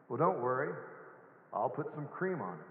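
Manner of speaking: lightly voiced calm doctor, unhurried; a hint of a soothing doctor; understated calm reassurance. A narrator's reading. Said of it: "responds very calmly".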